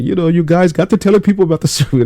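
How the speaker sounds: high, loud put-on Scottish boss; hammed-up Scottish accent; mock Scottish boss. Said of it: "he goes like".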